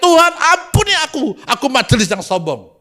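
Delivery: high cry for mercy, easing down; acted pleading shout; retold repentant cry. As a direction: cry out to God as the humbled elder. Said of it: "dia teriak".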